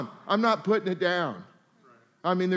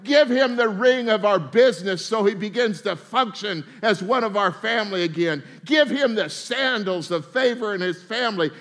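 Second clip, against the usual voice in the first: father's joyful proclaiming; 2 semitones higher, 4 dB louder than usual. Retold or imitated. The father welcoming the prodigal son home, loudly proclaiming. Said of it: "he says in Luke fifteen".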